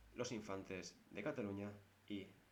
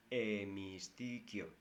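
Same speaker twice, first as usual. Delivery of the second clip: Hemistiquio drawn out slowly; slow spelled word; much slower than usual. Shown as a demonstration. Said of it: "con H". (Hemistiquio, lento y marcado)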